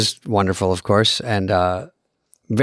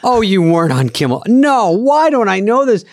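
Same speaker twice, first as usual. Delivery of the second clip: imitating mom; 7 semitones higher than usual. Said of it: "And she goes".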